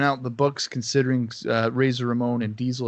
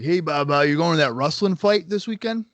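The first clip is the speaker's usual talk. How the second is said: louder, higher-pitched imitation of dad asking; lightly put-on dad voice, raised and loud; imitating dad; 4 semitones higher, 5 dB louder than usual. Dad checking on his kid's wrestling plans, lightly imitated. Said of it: "my dad would know it's coming up. He'd be like".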